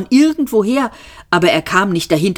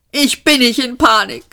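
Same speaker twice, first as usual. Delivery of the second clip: high, agitated protest; panicked denial; 7 semitones higher than usual. A narrator's reading. Arthur protests to Ford, high and panicky. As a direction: deny it while clearly losing control.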